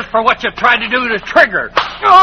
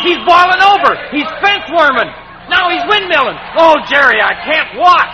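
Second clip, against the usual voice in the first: excited shout; 2 semitones higher than usual. Acted. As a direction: shout it, too tense to watch. Watching wild bull ride.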